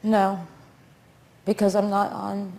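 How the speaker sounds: slurred, sluggish speech; words running together, slurred; slurring words. Real, not acted. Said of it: "you're slurring your words".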